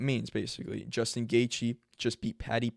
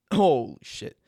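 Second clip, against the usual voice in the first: surprised; 5 semitones higher, 7 dB louder than usual. Real, not acted. Reacts to own voice crack.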